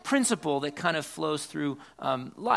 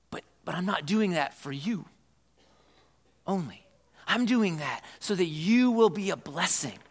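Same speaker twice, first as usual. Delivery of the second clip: voicing God; 3 semitones higher than usual. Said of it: "God said to Abraham".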